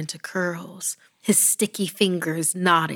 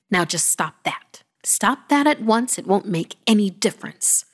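stern bark; 3 semitones higher than usual. Acted. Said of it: "she barked".

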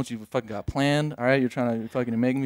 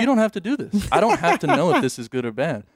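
inner pleading; 8 semitones higher, 4 dB louder than usual. Retold or imitated. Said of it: "And in my head, I'm like".

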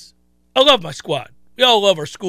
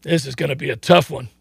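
hushed, feigned commiseration; mock pity; 7 semitones lower, 6 dB quieter than usual. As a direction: sigh it quietly for the doomed opponent. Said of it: "start feeling bad for other teams".

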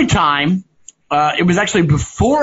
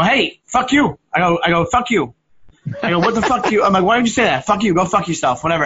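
retold angry outburst; 2 semitones higher than usual.

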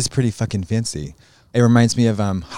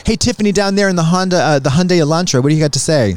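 radio host voice; 6 semitones higher than usual. Pretend. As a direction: hail a driver like a DJ. Calling out to a passing car.

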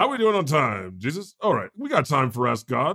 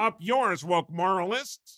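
higher, softer mock pundit voice; Jordan Peterson; 5 semitones higher, 4 dB quieter than usual. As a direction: sneer it like a cranky pundit.

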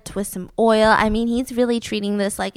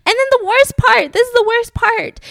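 excited build-up; 11 semitones higher, 5 dB louder than usual. Real, not acted. Building to the story's climax.

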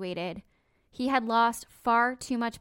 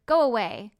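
mildly curt retold dismissal, louder; quick retort; 6 dB louder than usual. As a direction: retell a quick, louder brush-off. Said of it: "responded with a quick".

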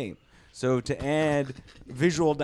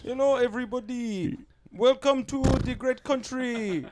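a pitched-up take on an American host; greeting the crowd in a higher put-on American voice; American accent; 8 semitones higher than usual. Shown as a demonstration. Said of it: "I'll do mine".

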